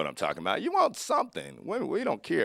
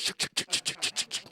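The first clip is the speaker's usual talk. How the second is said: quicker unvoiced sh-sh-sh rattle; faster car noise; 5 dB quieter, faster than usual. Car goes faster, so the noise speeds up. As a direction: speed the hiss up like the car accelerating. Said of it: "Faster you go, the faster it goes".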